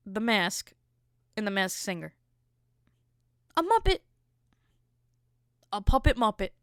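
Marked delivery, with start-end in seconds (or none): 3.6-4.0 high, loud exclamation; outraged outburst. Real, not acted. Outraged disbelief at Muppet reveal. 5.7-6.5 incredulous. Real, not acted. Outraged disbelief continues.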